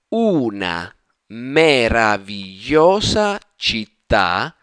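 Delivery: slow word by word repetition; slow model reading. Shown as a demonstration. Teacher repeating the sentence slowly, word by word. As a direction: drag each word out for learners. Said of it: "pronounce it with a quicker, more fluid intonation".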